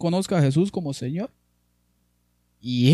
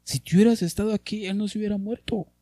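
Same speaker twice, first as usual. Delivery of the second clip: mournful plea; 8 semitones higher, faster than usual. Acted. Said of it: "mire lo que dice María".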